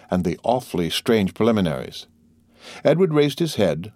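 plain reading voice

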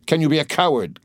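high-pitched, heated challenge; increasing excitement. A narrator's reading. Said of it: "with increasing excitement".

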